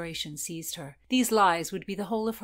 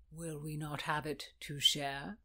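smooth; 3 semitones lower, 6 dB quieter than usual. Acted. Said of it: "he said smoothly".

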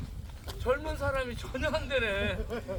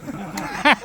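barked count; loud drill count; 6 semitones lower, 8 dB louder, much slower than usual. Acted. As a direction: shout out the count. Exercise count, drill leader. (구령 외치기)

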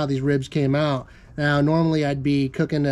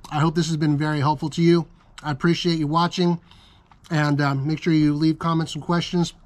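talking through a mouthful of food; chewing while you speak; mouth full. Real, not acted. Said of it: "Sorry I'm talking with my mouth full".

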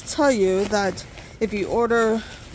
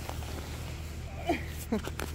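effort grunt; 3 semitones higher, 14 dB quieter than usual. Real, not acted. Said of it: "listening to me grunting here".

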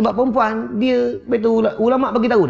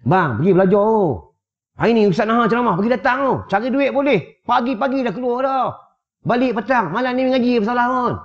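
wife's higher-pitched nagging, acted out; urging wife; 5 semitones higher than usual. Wife urging husband to go to the religious talk, insistent. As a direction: push him out to class like an insistent wife. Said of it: "Suruh suami mengaji".

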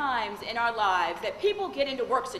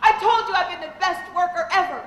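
upset client; 3 semitones higher, 6 dB louder, faster than usual. Retold or imitated. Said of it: "she started crying".

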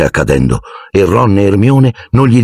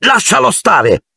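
much higher, slow urgent cry; shouted at snake; slower than usual. A narrator's reading. Harry shouting at the snake to spare Justin. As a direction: command the snake to back off. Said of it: "aveva gridato stupidamente al serpente".

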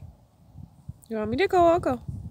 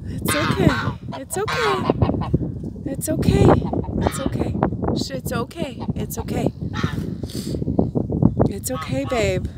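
soothing. Real, not acted. Soothing a nervous calf.

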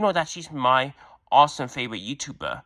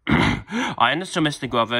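second take; 3 dB louder than usual. Acted. Repeated after clearing throat.

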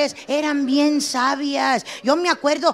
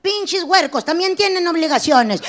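mock ad shout; 3 semitones higher, 4 dB louder than usual. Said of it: "un comercial que diga".

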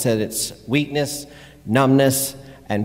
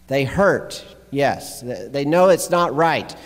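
preaching; 4 semitones higher, 3 dB louder than usual. Real, not acted. Preaches on the passage just read.

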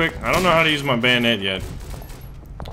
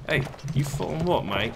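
mock British accent; 3 semitones higher, 4 dB quieter than usual. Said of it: "accents are gonna be flying".

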